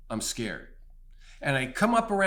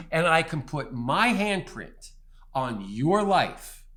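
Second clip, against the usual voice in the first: booming voice of God; 3 semitones higher, 5 dB louder than usual. Retold or imitated. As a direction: proclaim it from the mountain, building to a peak. Voicing God's answer, proclamation.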